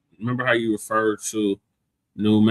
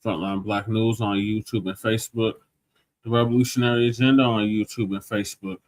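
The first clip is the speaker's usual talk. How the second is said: podcast outro; 3 dB quieter than usual. Acted. Host reads show outro.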